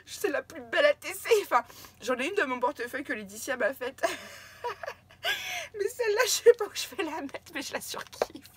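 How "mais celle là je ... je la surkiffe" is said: high, teary laughing voice; giggling while choked up; laughing through tears. Real, not acted. Thanking a friend for her card, laughing through tears. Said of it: "Je ris, je pleure en même temps".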